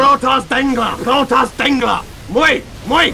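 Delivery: lightly hammed-up German commentary; mock German commentator. Commentator cheering on the Protoss, mock-German voice. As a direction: chant it in pretend German. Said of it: "I haven't spoken German".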